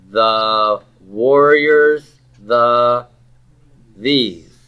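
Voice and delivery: slow, stretched, deliberately clumsy the warriors, the these; mock literal. Shown as a demonstration. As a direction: read it out like an awkward word-for-word rendering. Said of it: "which sounds wonderful, doesn't it?".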